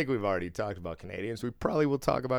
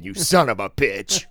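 mock outrage; 9 dB louder than usual. Mock scolding Canadians pretending.

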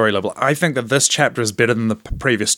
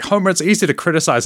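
lightly imitated scolding cartoon wife, pitched up; quick, higher-voiced hint of a chiding wife; Marge Simpson; 6 semitones higher, faster than usual. Podcaster quoting Marge telling off Homer, light impression. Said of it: "where Marge is like".

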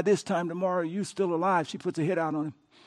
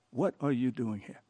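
hushed question; 8 semitones lower, 9 dB quieter than usual. Acted.

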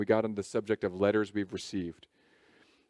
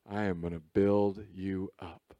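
God speaking; 3 semitones lower than usual. Acted. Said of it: "And he said".

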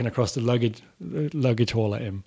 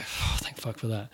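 relieved mutter; 11 dB quieter than usual. Retold or imitated. Relief after getting through passport control.

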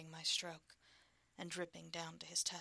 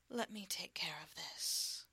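gentle whisper; slower than usual. Acted. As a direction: whisper it tenderly. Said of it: "Very gently now".

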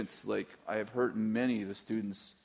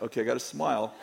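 laughing self reminder; 3 semitones higher, 5 dB louder, faster than usual. Retold or imitated. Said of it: "I'm like".

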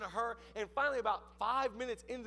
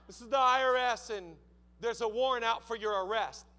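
firm, louder agent's announcement; stern official caller; 4 dB louder than usual. Retold or imitated. IRS caller threatening arrest, mock stern. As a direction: deliver it like an official serving a warrant.

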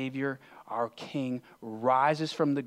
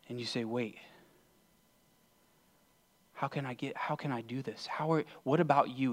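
guided visualization. Acted. Preacher asks congregation to imagine the cross, guided visualization. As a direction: lead them gently through the scene, leaving space.

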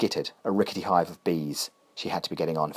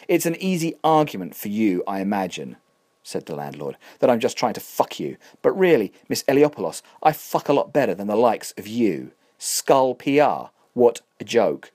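contemptuous landlord; 2 semitones higher than usual. Acted. Landlord insults Catherine's firm.

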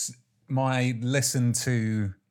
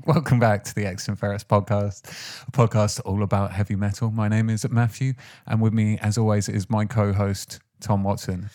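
louder, projected announcer delivery; podcast host intro; 5 dB louder than usual. Acted. Host welcoming listeners to heavy metal podcast, projected intro.

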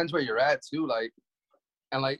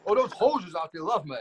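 lightly hammed-up Canadian accent. Wrestler showing hosts he can pull it, mock Canadian accent. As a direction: joke along in a put-on Canadian accent. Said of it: "I can speak like I'm Canadian".

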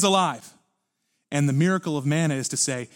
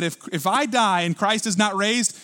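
lament; 3 semitones higher, 3 dB louder than usual. Retold or imitated. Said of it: "He said".

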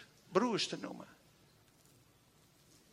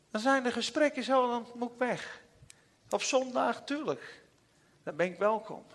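voicing God crying; 4 dB quieter than usual. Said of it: "Dat zei hij huilend".

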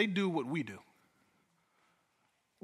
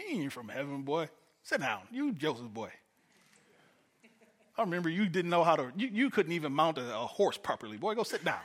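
mocking put-down; 4 dB quieter than usual. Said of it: "wrestle Jesus down to my level".

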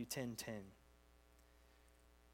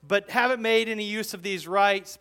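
insistent Paul; 4 semitones higher, 9 dB louder than usual. Retold or imitated. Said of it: "So it's like".

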